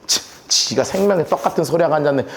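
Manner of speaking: low, scornful grumbling; sarcastic sneer. Acted. Villagers grumbling about Jesus, sarcastic sneer. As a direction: scoff at his big claim. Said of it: "엄청 빈정대기 시작합니다".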